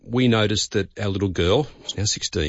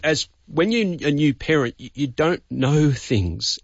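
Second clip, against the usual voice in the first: emotional; 4 semitones higher than usual. Real, not acted. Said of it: "sorry, I'm a bit emotional".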